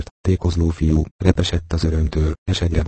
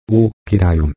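crying out; 3 semitones higher than usual. A narrator's reading. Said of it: "kiáltott Hendon".

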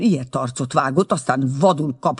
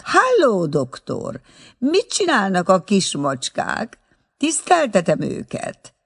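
loud, high hail across the street; calling out; 6 semitones higher, 4 dB louder than usual. A narrator's reading. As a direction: call out to the doctor, much higher and louder. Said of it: "s így kiáltott".

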